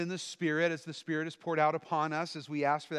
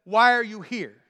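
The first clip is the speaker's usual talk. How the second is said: loud high demand; loud challenge; 4 semitones higher, 10 dB louder than usual. Acted. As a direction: hurl the question at them. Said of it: "And then he says".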